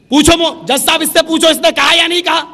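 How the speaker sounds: loud retold plea in court; loud appeal. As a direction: call out to the judge loudly.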